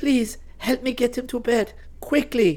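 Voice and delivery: very high, pleading, begging voice. A woman appeals to two boys after the professor's voice fails, begging. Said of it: "Nilofer begged the boys".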